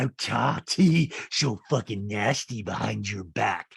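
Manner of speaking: slow, emphatic castmate impression; a hint of a nasty reality star; imitated confession. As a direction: draw it out, biting on each word. Acts out Rinna, then repeats her.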